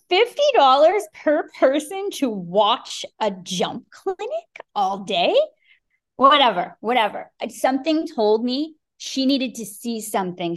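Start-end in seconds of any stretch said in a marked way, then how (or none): 0.1-5.4 slow, high, disbelieving; balking at fifty dollars to watch, incredulous. Retold or imitated. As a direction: stretch it out in disbelief. Incredulous at clinic price.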